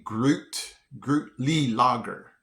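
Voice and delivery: Grutli Lager slowly as "GROOT-lee LAH-ger"; deliberate sounding out. Shown as a demonstration. Working out a German-looking name, slow GROOT-lee LAH-ger. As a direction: stretch Grutli Lager syllable by syllable. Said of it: "yeah, it's definitely".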